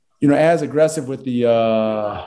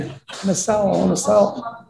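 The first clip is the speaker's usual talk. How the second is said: mimicking seller; 5 semitones higher than usual. Agent mimics for-sale-by-owner sellers, light pleading voice. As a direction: plead it like a homeowner begging to sell.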